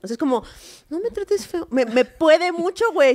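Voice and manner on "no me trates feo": sentido. Acted. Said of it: "a mí me sientan".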